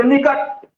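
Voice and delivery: निकट with a short, easy first vowel; brief i in निकट. Shown as a demonstration. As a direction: say निकट lightly, no push on the i. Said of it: "आराम से बोल दिए ना".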